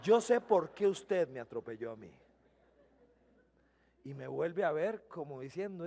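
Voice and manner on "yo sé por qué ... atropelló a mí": laughing retelling. Retold or imitated. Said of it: "Vea si soy pandereta yo".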